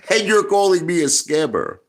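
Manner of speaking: laughing through the words; incredulous laughing accusation. Real, not acted. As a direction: scoff at them while laughing. Laughs while accusing critics.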